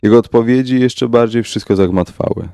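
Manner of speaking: usual speaking voice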